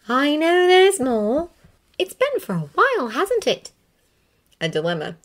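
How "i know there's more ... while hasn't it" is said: put-on higher, louder relieved young woman; Hermione's voice. A narrator's reading. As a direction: call out with relief, pitched up.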